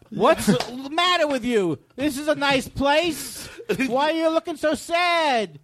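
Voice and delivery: half-performed song lyric as a reproach; mock scolding. Comic quoting a song's scolding lines to co-host, mock scolding.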